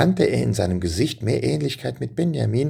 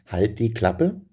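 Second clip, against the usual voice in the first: quizzing tone; slower than usual. Shown as a demonstration. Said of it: "wisst ihr schon, woher das kommt".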